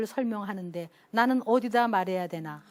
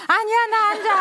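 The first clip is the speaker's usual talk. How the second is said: laughing high protest; 10 semitones higher, 6 dB louder than usual. Retold or imitated. Daughter protests, teller laughing.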